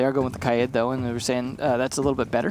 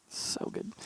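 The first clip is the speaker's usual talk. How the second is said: whispered; 15 dB quieter than usual. Real, not acted. Caster whispers praise to himself.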